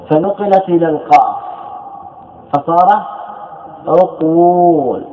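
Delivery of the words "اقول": اقول drawn out very slowly as uquul; two still consonants meeting. Shown as a demonstration. Teacher showing students the vowel moved to qaf, drawn-out uquul. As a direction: stretch the long u in اقول, slowly. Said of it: "التقى ساكنان".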